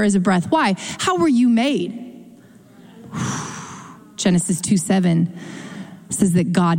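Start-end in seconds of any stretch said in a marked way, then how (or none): 3.1-3.7 soft short exhale; breathed-out puff. Shown as a demonstration. Preacher on how Adam was made, soft exhale.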